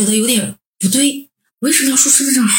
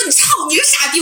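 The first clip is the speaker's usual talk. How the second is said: retold cursing; 4 semitones higher than usual. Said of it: "我都爆粗口了".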